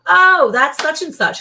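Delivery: high, slow dawning recognition; lightly voiced husband suddenly remembering; mock realization, drawn out; imitating husband. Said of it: "And he'll go".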